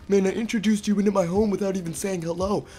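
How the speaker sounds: high pitched fussy little voice; cartoonish tiny wizard host. Tiny wizard offers the narrator snacks, high and eager. Mini Gandalf apologizes.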